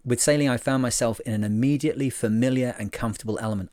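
lightly heightened solemn reading; earnest reading voice. Shown as a demonstration. Vlogger rereads the sailor's beautiful line with mild reverence. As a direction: give the line a little extra gravitas. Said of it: "It kinda needs the extra, uh, effort".

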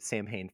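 Samhain said as SAM-hayn; former mispronunciation. Shown as a demonstration. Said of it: "I pronounced it Samhain for".

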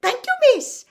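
high squeaky thanks; a toothy grin in the voice; grinning house elf. A narrator's reading. Dobby thanking Hermione, high and squeaky.

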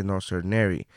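patient agent correcting. Retold or imitated. Call-centre agent correcting a caller's mistake, low and resigned. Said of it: "And I'd say".

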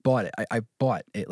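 stretched Jersey "bawt" in "bought"; Jersey accent. Shown as a demonstration. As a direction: put a W into "bought", Jersey-style. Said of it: "the W adds, like, emphasis".

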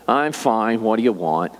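low, flat-out curt reply; curt clerk. Retold or imitated. Store clerk brushing off a customer, curt and low. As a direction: brush him off like a bored clerk. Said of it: "And literally".

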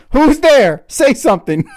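lightly acted groping call into the dark; voicing a blind man calling out; mock blind guy voice. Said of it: "in quotes".

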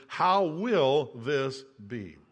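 slow and sincere; sincere wondering. Shown as a demonstration. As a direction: ask it in open wonder, not doubt. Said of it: "the literal translation of this verse is".

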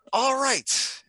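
high, timid little voice politely refusing; high squeaky voice. Acted. Cat politely declining the invitation in a high timid voice. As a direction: pitch it way up like a shy creature turning down an offer. Acted reply in same voice.

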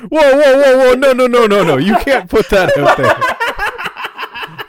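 loud, high panicked protest; alarmed shouting. Real, not acted.

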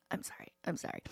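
tiny, very soft sorry; meek apology. Retold or imitated. Mom answering her daughter's scolding, meekly apologetic. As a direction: shrink down to almost nothing.

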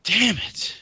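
loud, high-pitched outburst; exasperated cursing. Real, not acted. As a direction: curse out loud at the interruption. Exasperated at the household interruption.

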